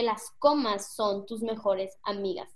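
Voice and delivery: a small pause after "comas", then slowly on; slow, measured phrase with a break after "comas"; deliberate pauses. Shown as a demonstration. Speaker showing students that commas are friends, with deliberate pauses. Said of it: "Literal lo acabo de decir".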